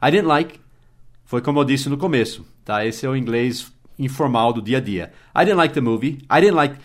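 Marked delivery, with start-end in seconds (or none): 0.1-0.6 I didn't like blurred into one quick beat; reduced didn't. Shown as a demonstration. Teacher models informal everyday I didn't like, blurred. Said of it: "como se fosse uma sílaba só". 5.3-6.8 like stressed, didn't reduced to dent. Shown as a demonstration. Teacher shows stress on like with didn't reduced. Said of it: "O que vai sair forte é o like".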